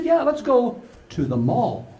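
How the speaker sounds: put-on little girl voice. Granddaughter voiced in story.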